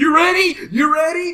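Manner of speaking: put-on very high, shrill, loud screech. Speaker mocks Rousey screaming spots in a match, imitating Rousey screaming. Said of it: "screaming spots at the top of her lungs".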